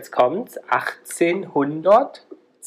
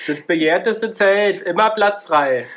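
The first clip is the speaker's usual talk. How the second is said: slow, louder barker pitch; market crier; 5 semitones higher, 4 dB louder, slower than usual. Pretend. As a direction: advertise the tent like a stall. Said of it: "Und du bist der Marktschreier".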